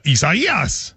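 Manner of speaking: very slow, drawn-out "Isaias"; mock TV pronunciation. Imagining Bill Mack saying it on TV, slow and drawn out. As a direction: draw out "Isaias" like a weatherman on air. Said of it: "I expect him to be on T V going".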